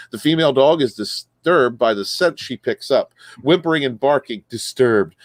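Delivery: reading a news story aloud with punched key words. Acted. Host reading a missing-husband news story to co-hosts, newsreader delivery. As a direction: read the article out like a casual newscaster.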